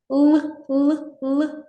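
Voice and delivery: «Л» held and repeated, sound stretched; drawn-out l sound. Shown as a demonstration. Teacher stretching the л sound for first graders. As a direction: stretch the «л» for the children. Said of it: "Тягнемо далі".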